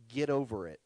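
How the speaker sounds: low, smiling get over it; with a smile. Shown as a demonstration. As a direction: say it gently, smiling. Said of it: "With a smile".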